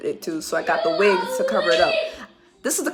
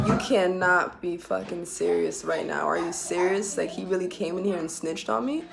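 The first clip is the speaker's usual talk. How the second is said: inner thought; 6 dB quieter than usual. Retold or imitated. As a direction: think it to yourself in disbelief, dropping softer. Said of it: "in my mind".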